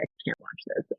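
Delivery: near-whispered retold reaction; soft, acted-out helplessness; overcome. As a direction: let the voice drop away to a whisper. Acting out being overcome by video.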